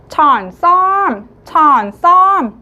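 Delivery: 천썸 slow and loud, stress on 썸; slow emphatic review. Shown as a demonstration. Teacher leads the review, slow and loud. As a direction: say 천썸 slowly, hitting 썸. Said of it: "배운 단어 다시 한번 읽어보겠습니다".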